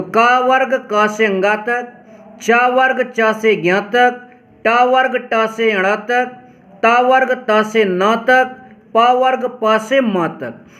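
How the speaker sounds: measured and slow for memorizing; slow rote chanting for pupils; slow recitation. Shown as a demonstration. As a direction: recite each वर्ग slowly and clearly. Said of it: "इसको याद जरूर रखो".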